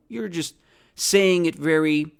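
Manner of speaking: usual speaking voice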